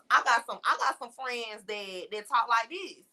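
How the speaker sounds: relaxed Black American vernacular, clearly code-switched; casual Black vernacular. Shown as a demonstration. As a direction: slide into casual Black English. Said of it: "go back and forth from those two types of conversations".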